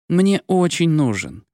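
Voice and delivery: put-on the girl nagging Dima for a priest; whining. A narrator's reading. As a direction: whine it out slowly. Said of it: "нудила девушка".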